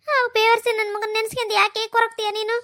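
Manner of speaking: upset, tearful scolding. Acted. Mother-in-law cursing her son to comfort the girl, tearful. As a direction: console her with tears in the voice.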